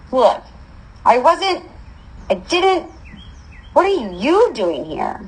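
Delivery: high, halting false starts; flustered deflection. A narrator's reading. Girl accused of nearly being killer's target, flustered. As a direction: stumble over excuses, then turn it into a question.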